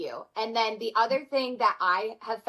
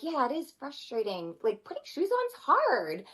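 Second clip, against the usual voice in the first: higher, gentle soothing voice to a little one; comforting child; 4 semitones higher than usual. Retold or imitated. Parent sitting beside crying child, gentle and comforting. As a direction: soothe the child over the shoe. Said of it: "sitting next to them being like".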